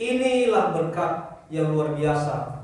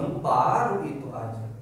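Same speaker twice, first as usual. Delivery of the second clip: God scolding gently; 5 semitones lower than usual. Retold or imitated. Preacher voices God chiding a complaining believer, lower mock reproach. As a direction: speak as God, unimpressed and lower. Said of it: "kalau udah begitu kata Tuhan".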